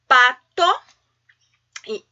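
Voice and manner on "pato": "pato" louder, as two distinct beats; measured syllables. Shown as a demonstration. Teacher setting a counting challenge, "pato" in measured syllables. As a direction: sound out pa and to in "pato". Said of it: "Quantos impulsos de voz eu realizei".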